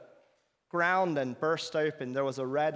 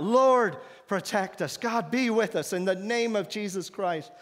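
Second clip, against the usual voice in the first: raised, urgent plea to God; crying out; 5 semitones higher, 3 dB louder than usual. Retold or imitated. Captives crying out to God under attack. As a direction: call out to God for protection.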